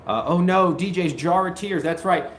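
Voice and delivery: normal talking voice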